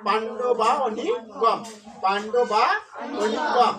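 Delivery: পাণ্ডবা অনিকম slowly, as two separate words; split-word pronunciation. Shown as a demonstration. Teacher showing how the split words are pronounced, slow model reading. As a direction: draw out অনিকম after a full পাণ্ডবা. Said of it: "তাহলে কি উচ্চারণ হবে".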